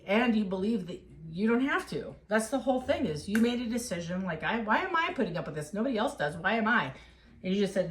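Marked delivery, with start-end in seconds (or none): 4.4-6.9 higher-pitched mock exasperation; voiced inner protest, mildly exasperated; fed-up questioning. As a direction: imitate someone protesting what they put up with. Acting out the client's fed-up question.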